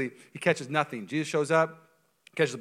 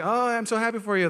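high-pitched put-on congratulations; fake-happy high voice; 9 semitones higher, 5 dB louder than usual. Congratulating someone you secretly envy, fake-happy high voice. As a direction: gush insincerely, pitched well up. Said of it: "Why am I saying high voice?".

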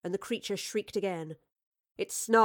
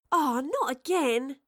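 drawn out, higher groan of dismay; exasperated groan; 6 semitones higher, 4 dB louder, slower than usual. A narrator's reading. Astrid sees the wraith at the window again, groaning. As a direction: groan it slowly, pitched up. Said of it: "Astrid groaned".

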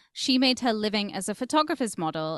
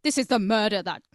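mock news hype; 3 semitones higher than usual. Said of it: "everyone goes".

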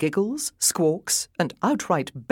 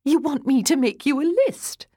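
higher, gleefully teasing; teasing laugh; 9 semitones higher, 4 dB louder than usual. A narrator's reading. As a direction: let the laughter bubble into the question. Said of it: "Laughter bubbled out of her again".

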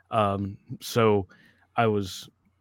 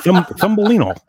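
1 laughing mockery; 10 semitones higher, 10 dB louder than usual. Real, not acted. Teasing the co-host's lisp.

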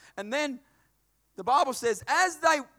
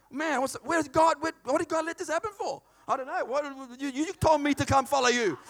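exasperated complaint; 4 semitones higher than usual. Pretend. Imagined prisoner complains to God.

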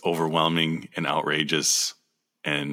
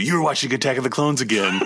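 laughing tease; 7 semitones higher, 4 dB louder, faster than usual. Retold or imitated. Teasing quote, laughing through it.

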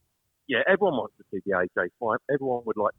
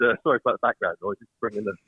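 breathless while walking; short of breath from hauling luggage. Real, not acted. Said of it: "I'm out of breath as well".

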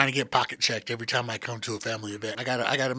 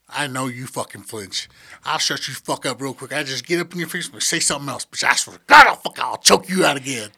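hotheaded shouting; 6 dB louder than usual. Acted. Jokey threat at the family.

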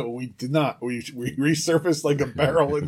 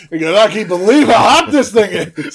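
put-on Yiddish accent; 6 semitones higher, 6 dB louder than usual. Tony Stark bit, Jewish voice.

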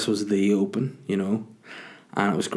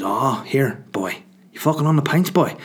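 mock eager driver; 4 semitones higher than usual. Sammy voiced leaning in.

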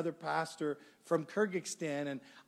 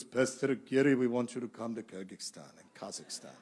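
put-on low, halting Central Asian-accented English; broken-English Central Asian accent; 6 semitones lower than usual. Church planter inviting a pastor over, broken-English Central Asian accent. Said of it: "in his broken English".

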